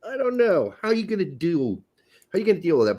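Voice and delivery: hesitant, high-pitched "eh" into doubt; acted skepticism. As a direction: voice your wary reluctance, starting high. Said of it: "I'm kinda like".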